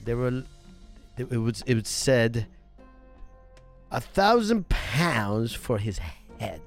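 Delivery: put-on slow, halting Norwegian accent. Newcomer reporting the sheriff's letter, halting Norwegian accent. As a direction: feel for each phrase in Norwegian-accented English. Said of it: "a little bit of the Norway accent".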